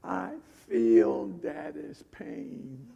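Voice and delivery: put-on small tender child. Little Petra explaining to her sister why she cries, tender and slow. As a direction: say it simply, like a sincere five-year-old. Five-year-old answers tenderly.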